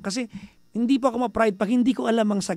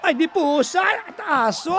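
laughing; 9 semitones higher, 3 dB louder, slower than usual. Real, not acted. Laughing after mock rant.

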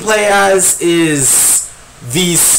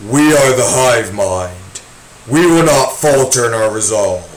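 slow, lower, lightly voiced swarm; hive mind voice; 4 semitones lower than usual. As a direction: speak as one droning hive. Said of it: "bugs that talk like this".

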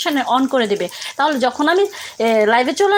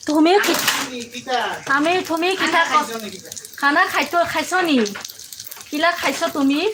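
a hint of Sylheti accent, halting; trying out Sylheti words for a viewer; Sylheti dialect. Cook answers a viewer's request to speak Sylheti, in a hesitant, lightly imitated Sylheti accent. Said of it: "আমি সিলেটের ভাষা কথা বলবো".

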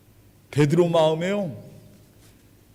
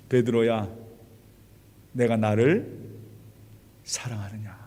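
tender question; 7 semitones lower, 4 dB quieter than usual. Acted. Jesus asks Peter softly.

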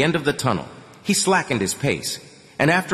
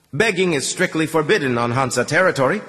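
higher and firm, laying down the rule; stern; 6 semitones higher than usual. A narrator's reading. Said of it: "the voice said sternly".

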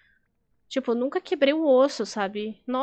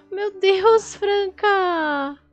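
loud, high-pitched indignant disbelief; shocked outrage; 7 semitones higher, 6 dB louder, much slower than usual. Real, not acted. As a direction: exclaim in horror at a friend's story. Reage indignada ao relato do chat. (indignação chocada, alta e aguda)

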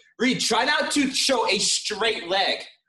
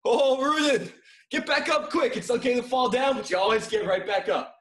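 encouraging shout; 5 semitones higher than usual. Real, not acted. Coach encouraging a fallen student.

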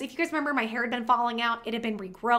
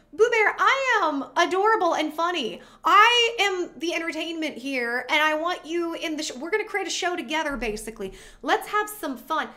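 higher and louder, bubbly banter; retold flirty delight, higher voice; playful teasing; 5 semitones higher, 4 dB louder than usual. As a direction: tease him like you're charmed. Teasing her date, retold.

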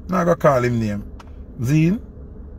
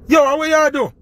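aggressive tone; 11 semitones higher than usual. Retold or imitated. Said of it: "With an aggressive tone".

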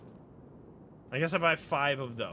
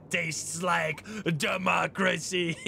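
mock shout; slower than usual. Gamer hamming up a corrupt line.

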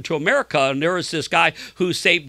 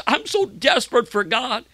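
higher-pitched, acted desperate cry; anguish; 6 semitones higher than usual. Sick man to well-known preacher, retold anguish. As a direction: imitate his anguished plea. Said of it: "he said it with great, like, anguish".

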